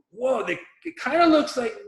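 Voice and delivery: high-pitched dawning surprise; imitated stunned "whoa"; retold amazement. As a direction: realise it mid-sentence, voice jumping up. Retold amazed reaction to ticker.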